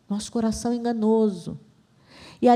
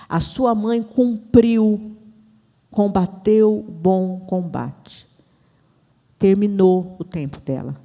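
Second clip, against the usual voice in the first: slow, solemn pronouncement; measured, weighty divine charge; God's message; slower than usual. Retold or imitated. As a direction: deliver each phrase deliberately, with long pauses. Voices God's message to her.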